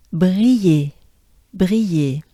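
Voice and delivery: "Brillers" with a throaty French R and i-yé end. Shown as a demonstration. Teacher drilling "Brillers" for learners. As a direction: breathe the R in "Brillers". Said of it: "the French R".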